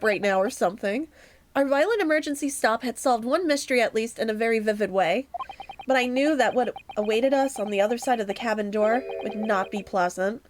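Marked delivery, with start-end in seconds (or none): 1.5-10.4 low, brisk first-person narration; lower-pitched, measured storyteller voice; story narration. A narrator's reading. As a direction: read it as a mystery narrator. Reads the game's first-person narration.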